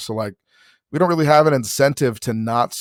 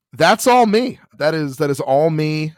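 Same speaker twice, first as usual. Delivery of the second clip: Seth Meyers' line; 4 semitones higher than usual. Retold or imitated. Seth Meyers on seeing himself in his kid, rueful. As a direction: own it with a wry grin. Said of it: "Seth Meyers said".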